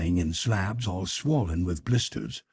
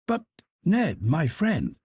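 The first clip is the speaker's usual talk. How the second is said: lightly voiced Conseil; 6 semitones higher than usual. Conseil answers Ned.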